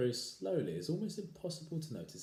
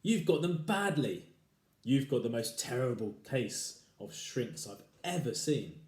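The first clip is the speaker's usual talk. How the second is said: gloating husband; 3 semitones higher, 5 dB louder than usual. Acted. Husband taunting.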